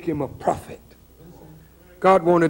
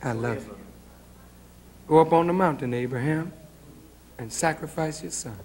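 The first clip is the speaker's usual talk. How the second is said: voice of God; 8 dB quieter than usual. Acted. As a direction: speak as God, hushed and grave. God voiced commanding Abraham.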